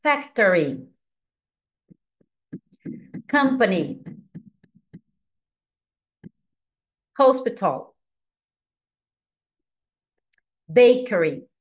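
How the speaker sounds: each English word ("Factory", "Company", "Hospital", "Bakery") said clearly and separately, with pauses; careful teacher model of each word; teacher saying English words for students to imitate; model pronunciation. Shown as a demonstration. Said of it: "Me imita".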